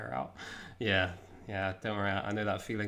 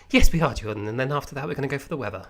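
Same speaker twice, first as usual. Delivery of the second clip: news anchor voice; 3 semitones higher, 9 dB louder, faster than usual. Retold or imitated. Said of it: "my mum always sounds like a news anchor".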